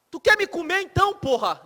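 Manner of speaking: high, loud, fed-up snap at the wife; exasperated husband. Acted. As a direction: blurt it out, fed up with her indecision. Husband loses patience with indecisive wife.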